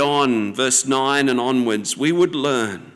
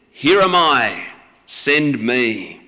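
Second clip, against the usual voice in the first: lightly voiced eager boy, louder at first; boyish enthusiasm; 3 dB louder, slower than usual. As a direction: answer with a touch of bursting eagerness. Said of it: "he sounds like a ten-year-old boy bursting with enthusiasm".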